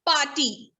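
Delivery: "party" as pah-tee, falling; silent R. Shown as a demonstration. Teacher repeating the model, party with silent R. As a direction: leave the R out of party. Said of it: "The R is almost silent".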